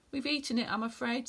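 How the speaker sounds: sadly. Acted. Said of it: "said the middle billy goat Gruff sadly".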